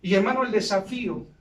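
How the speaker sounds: building preacher's exhortation; rising sermon. Acted. Preacher challenging the church to give all, building. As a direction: urge the congregation to give everything.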